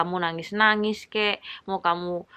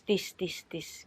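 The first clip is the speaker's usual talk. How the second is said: mock echo; 7 dB quieter, much slower than usual. Playful echo of gratis.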